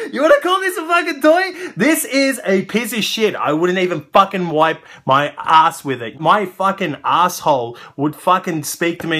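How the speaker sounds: loud, high indignant tirade; angry rant. Real, not acted. Reviewer disgusted by the toy's colour, loud high rant. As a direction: fume at how bad it looks.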